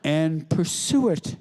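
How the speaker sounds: slow, drawn-out patrician drawl; lightly voiced grand Buckley. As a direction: stretch out the fancy words like Buckley. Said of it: "He sounds the same as he does on television".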